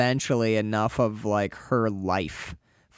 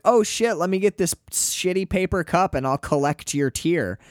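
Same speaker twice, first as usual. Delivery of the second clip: mock ditzy girl; 5 semitones higher than usual. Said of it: "she totally cheapens the moment by being like".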